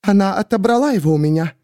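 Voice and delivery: high, tearful woman's voice; a distraught woman pleading; Miriam voiced. A narrator's reading. Miriam to the narrator, high and tearful.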